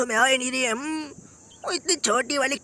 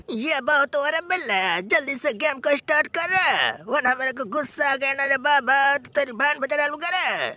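blustering cartoon threat, slightly raised voice; impatient cartoon tough; 2 semitones higher than usual. Character threatening Billa to start the game, blustering cartoon voice. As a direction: scold your sidekick like a cartoon bully.

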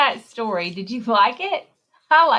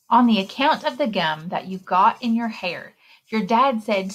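put-on lively read-aloud for little kids; story reading. A narrator's reading. Librarian reading a picture book to children. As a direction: read the rhymes like story time.

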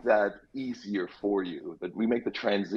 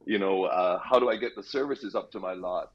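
put-on Jamaican accent. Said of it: "I don't know why I'm slipping into this Jamaican accent".

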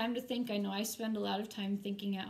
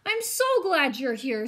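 ghost voice; 3 semitones higher, 9 dB louder than usual. Acted. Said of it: "said the ghost".

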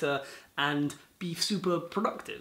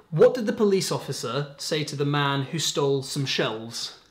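joke told loud; 7 dB louder than usual. Acted. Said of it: "how about this one".

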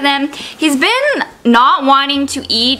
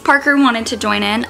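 ordinary delivery

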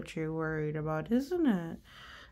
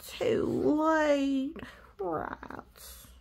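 disappointed whisper; 6 semitones higher, much slower than usual. Acted. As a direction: whisper it like a letdown.

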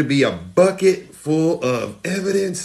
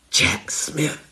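hushed, unvoiced whisper of a name; spooky whisper; 3 semitones lower, 5 dB quieter than usual. Shown as a demonstration. Host showing Trump supporters a bathroom trick, whispering. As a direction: whisper it like a summoning chant. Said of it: "and you whisper".

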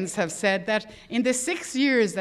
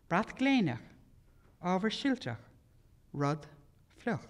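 measured Irish poetry recital; poem reading in Irish. Acted. Reads Irish poem aloud.

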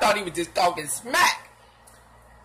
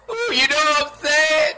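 ooh; 7 semitones higher, 7 dB louder than usual. Real, not acted.

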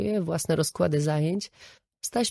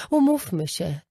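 indignant rant; 2 semitones higher, 4 dB louder than usual. Retold or imitated. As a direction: list her perks with bitter sarcasm. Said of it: "A on na to".

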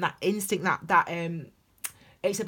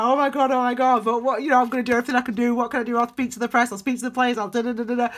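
higher and louder, breathless with excitement; giddy new manager; 5 semitones higher, 6 dB louder, faster than usual. Pretend. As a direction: gush like someone who just got the Liverpool job. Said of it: "and you're excited".

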